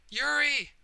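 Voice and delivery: high frantic shout of a name; calling out in panic; mother's shout. Acted. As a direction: yell the name to wake her.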